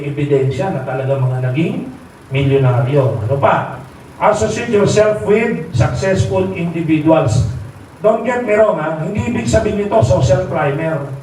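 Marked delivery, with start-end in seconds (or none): 4.2-7.5 slow and deliberate, each word weighted; slow emphatic. Shown as a demonstration. Speaker teaching members whom to associate with, slow and emphatic. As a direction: lay it down slowly, like a rule to remember.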